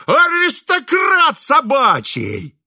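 high, loud, slow yelled jeer; shrieking insult. A narrator's reading. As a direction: fling the title at him as an insult. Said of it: "вскрикивал дворник".

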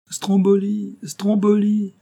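thrilled repetition of Stromboli; excited repeating. A narrator's reading. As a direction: savour the name with wonder. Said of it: "répétai-je".

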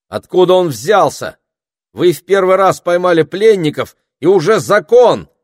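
high, loud indignant outburst; girl scolding the wolf in outrage. A narrator's reading. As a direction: let the outrage pour out. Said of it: "негодующе заявила Пенелопа".

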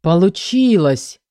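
slow, stunned disbelief; disbelieving. A narrator's reading. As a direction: say it as if you can't believe your eyes. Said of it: "неверяще произнёс".

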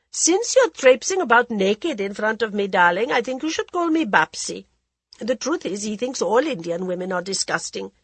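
languid society lady, teasing; a drawling, worldly hostess; Lady Modi voice. Acted.

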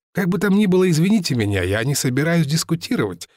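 lightly voiced offended seller. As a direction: stand on formal pride, mildly. Seller objects to familiarity.

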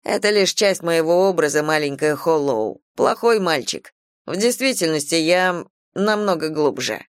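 teasing, lightly voiced young man; cocky young man. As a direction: play a cocky bad boy. Tyler's lines voiced.

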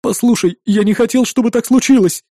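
a friend full of sorrow; deep sorrow. A narrator's reading. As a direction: beg forgiveness with real grief. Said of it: "В голосе Волкова слышалась глубокая печаль".

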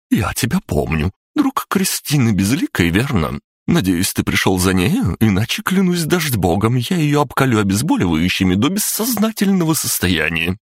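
a nurse at the end of her rope; exasperated nurse. A narrator's reading. Nurse voiced in story.

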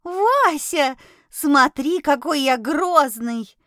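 squeaky voice. Acted. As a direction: squeak it out, proud and playful. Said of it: "писклявым голосом произнесла".

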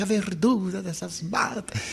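"verdura" stressed, marvelling at it; excited recital. Retold or imitated. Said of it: "eu me empolgava".

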